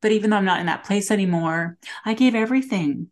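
teary, voice close to breaking; after crying. Real, not acted. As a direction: speak through held-back tears. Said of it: "sorry, getting teary".

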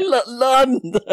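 lightly mimicked stuttering London sound bite; mimicking the audio clip. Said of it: "you mean like this".

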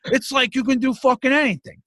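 put-on high, excited old man gushing; a high-pitched old father amazed by Alexa; old dad voice. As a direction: imitate your dad raving about a gadget, high and fast at times. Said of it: "And he's like".

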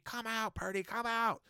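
high, strained mock yell at moderate volume; high-pitched holler, volume held back; retold screaming. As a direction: imitate a man hollering for someone to come out.

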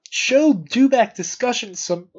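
interrupted by a hiccup. Real, not acted. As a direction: speak through hiccups. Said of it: "I'm hiccuping".

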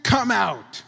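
high call on the name, then a firm order; loud calling. Retold or imitated. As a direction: call the dead man out with authority. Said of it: "Jesus called in a loud voice".

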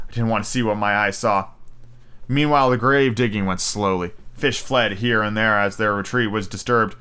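steady audiobook reading; story narration. A narrator's reading. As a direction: read it like an audiobook. Reads novel aloud.

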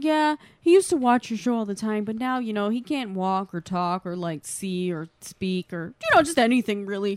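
retold sad story. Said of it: "turns it into this fucking sad story".

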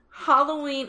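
topic announced with a lift; announcing. Acted. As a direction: call out the topic brightly. Repeats topic softly.

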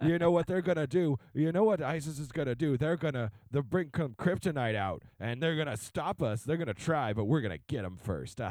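lightly acted comic-book alarmist; a touch of comic-book melodrama; mock paranoid alarm. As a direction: warn of a plot, mildly hammed up. Mock paranoid Batman-comic America.

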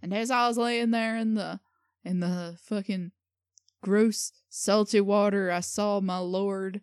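loosely faked Australian testimony; half-land an Australian accent, slowing at the end; attempted Australian accent. Guest playing shark victim finding God, attempted Australian accent. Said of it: "more Australian, actually".

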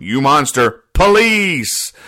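high-pitched alarmed cartoon bird; mock outraged cry. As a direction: call for the police in mock horror, voice leaping up. Birds' outraged cry for police acted out.

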